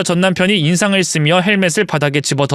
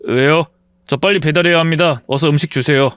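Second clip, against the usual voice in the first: lowered disguised voice. Acted. Ex-husband posing as courier to his ex-wife, voice lowered. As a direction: drop your pitch to hide who you are. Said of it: "목소리를 깔고 말했습니다".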